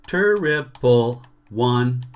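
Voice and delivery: slow, deliberate triple one two; slow rhythm recap. Shown as a demonstration. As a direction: spell out the rhythm slowly. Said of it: "I went triple".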